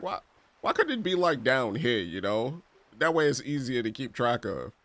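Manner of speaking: high, fast whining plea; whiny question. Retold or imitated. Teen questioning Jamaica's currency, high whiny plea. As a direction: squeak it out like a confused kid. Retold complaint about prices.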